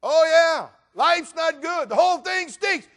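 high, loud whiny griping; mock complainer. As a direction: play the chronic complainer for laughs.

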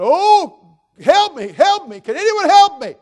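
high, loud panicked calling; desperate cry for help. Acted. Man dangling off a cliff cries out, high and frantic. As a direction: shout up for rescue from the cliff.

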